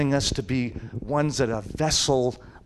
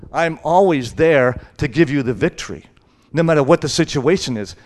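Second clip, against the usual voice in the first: emphatic declaration; 3 semitones higher, 8 dB louder than usual. Retold or imitated. God's promise quoted.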